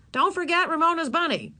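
a hint of a fussing mother; lightly voiced mother calling out; reminding mother. Mother calling to her son.

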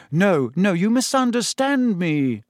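smiling reassurance. A narrator's reading. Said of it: "now smiling".

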